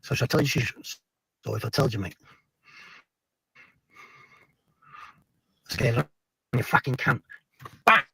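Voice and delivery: put-on Pat Tate accent. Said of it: "trying to do the Pat Tate accent".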